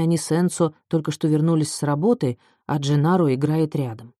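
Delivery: usual speaking voice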